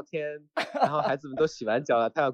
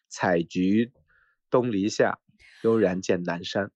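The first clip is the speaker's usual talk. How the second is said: poem recitation; 5 semitones lower, slower than usual. Shown as a demonstration. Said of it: "古诗里面".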